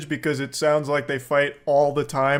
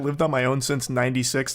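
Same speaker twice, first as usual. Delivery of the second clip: lower, softer smug boast; mock self-important; 4 semitones lower, 4 dB quieter than usual. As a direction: say it like a washed-up braggart. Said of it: "I love the way he says that".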